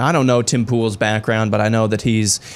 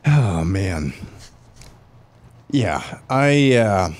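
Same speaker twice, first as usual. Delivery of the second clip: talking through a yawn; words stretched by a yawn; mid-yawn; 2 semitones lower, much slower than usual. Real, not acted. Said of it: "I just yawned a little bit".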